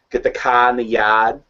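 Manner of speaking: Boston accent with dropped R's. Shown as a demonstration. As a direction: lean into the open Boston vowels. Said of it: "Now switch to Boston".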